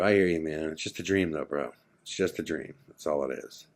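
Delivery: retold soft, low consoling; gentle reassurance. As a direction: quietly comfort a troubled friend. Consoling friend about his troubling dream.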